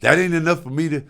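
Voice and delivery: father scolding his son who demands words of love; lecturing father. Retold or imitated. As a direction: list it off like an offended dad. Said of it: "He said".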